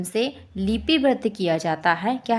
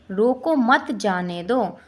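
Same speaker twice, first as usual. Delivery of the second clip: slow, with a break after "रोको" before "मत जाने दो"; comma pause demo; slower than usual. Shown as a demonstration. Teacher reads a comma example, pausing after "रोको". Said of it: "विराम चिन्ह लगाने से अर्थ".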